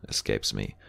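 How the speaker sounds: plain reading voice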